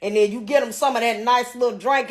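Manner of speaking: a hint of a bossy mother laying down the plan; mama giving advice. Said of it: "My mama like".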